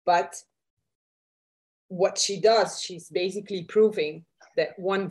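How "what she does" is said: ordinary talk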